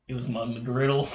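imitated deadpan reply. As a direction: deliver it like a deadpan friend. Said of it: "deadpan voice".

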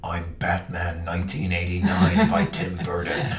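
mock-heroic film announcement; Batman. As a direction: put on a voice for a joke title announcement. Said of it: "last episode with Batman".

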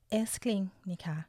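breathy whispered endearment to a partner; intimate whisper. Shown as a demonstration. Host shows how she calls her partner darling, whispered. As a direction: whisper it like a secret pet name. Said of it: "เวลาพูดกับแฟนนะคะ ก็จะ".

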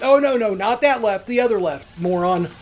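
condescending mock. Mocking the lost caller.

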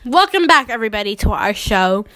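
punchy mock talk-show welcome; show host. Host opens pretend celebrity show, show-host voice.

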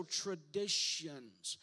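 TRADITIONS drawn out slowly, each syllable emphasized. Shown as a demonstration. Preacher has the congregation say it like they're from Louisiana, TRADITIONS very slow. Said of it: "say it again very slow".

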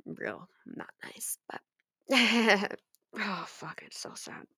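near-silent, breaking voice over the sad part; real choked-up sadness. Real, not acted. Fan recapping a sad scene to viewers, voice breaking. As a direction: let the voice fall away as it gets to her. She tears up over the story.

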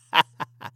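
short amused laugh. Real, not acted. Podcaster after accidental Russian accent, laughing. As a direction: laugh at your own accent slip.

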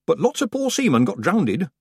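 high, eager gossiping villager; village woman. A narrator's reading. Village woman sharing the shipwreck news, high and eager. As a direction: chatter it out like a country gossip.

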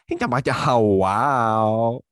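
loud, drawn-out imitation of Korean melody; mock Korean intonation. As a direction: stretch it out in a put-on Korean lilt. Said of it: "I like the musicality of their voice where they'll, like, go up at the end".

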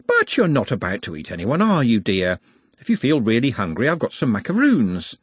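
lightly voiced, coaxing bystander; kindly woman passenger. Woman offers Nut macaroons, kindly. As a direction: offer a snack with motherly concern.

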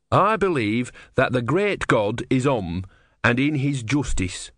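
a touch of solemn creed; earnest disciple. Acted. Brother professes faith to the tortoise, mildly solemn and earnest.

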